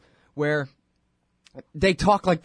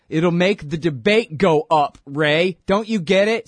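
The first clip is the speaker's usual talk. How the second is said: louder, slow, incredulous repeat; louder, exasperated throwing the line back at Ray; sarcastic disbelief; 3 semitones higher, 5 dB louder than usual. Real, not acted. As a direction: hammer the quote back in mockery. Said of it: "repeats quote in sarcastic disbelief".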